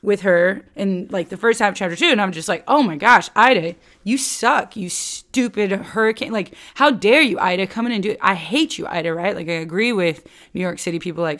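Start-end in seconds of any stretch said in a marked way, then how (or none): 2.7-9.1 louder, higher acted indignation; mock raging at Ida. Speaker siding with New York City against the hurricane, mock raging. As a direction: scold the hurricane in hammed-up outrage. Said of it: "what if I agreed with".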